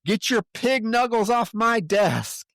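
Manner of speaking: high-pitched outburst imitating screaming; mock scream. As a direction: retell it as a high, indignant scream.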